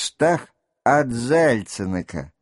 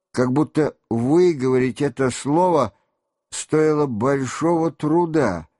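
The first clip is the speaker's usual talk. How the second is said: ordinary delivery, nothing marked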